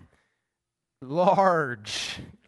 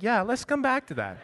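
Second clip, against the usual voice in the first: laughing; 6 semitones higher than usual. Retold or imitated.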